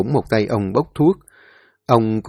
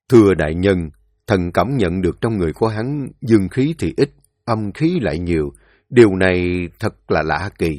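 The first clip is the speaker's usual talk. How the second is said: a lower, subdued court physician reporting to his lord; deferential old physician; 3 semitones lower than usual. Acted. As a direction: speak lower and humbly, like a careful servant. Thái y bẩm báo quan. (giọng thái y trầm, khúm núm bẩm báo)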